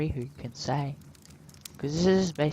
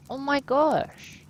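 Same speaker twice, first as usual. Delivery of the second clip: shocked gasp; 9 semitones higher, 4 dB louder, slower than usual. Real, not acted. Player sees crocodile skin shoes.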